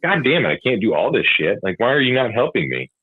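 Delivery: imitating an exasperated rant at the partner; fed-up complaint, half acted; pissed off. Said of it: "I would just come home and be immediately just pissed off".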